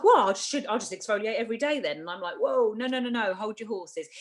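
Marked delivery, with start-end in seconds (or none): 0.0-2.0 higher-pitched, quick client voice; imitated client question. Acting out a client's eager question. 2.4-4.1 higher-pitched mock alarm, halting someone; playful "stop right there" reply, pitched up; acted protest. Acted reply halting an over-eager client.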